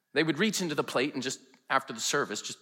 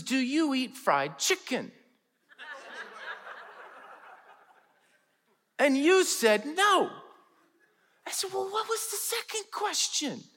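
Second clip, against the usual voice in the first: higher, slow, giggling through the words; laughing wife; 12 semitones higher, slower than usual. Retold or imitated. Wife translating Herbie's questions to pastor, laughing through it. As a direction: retell the questions while barely holding in laughter. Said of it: "she is laughing so hard".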